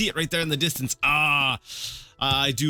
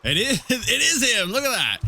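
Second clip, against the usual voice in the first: higher and louder, laughing at the find; laughing discovery; 10 semitones higher, 4 dB louder than usual. Real, not acted. Player spotting Arville at last, laughing. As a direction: laugh it out, delighted.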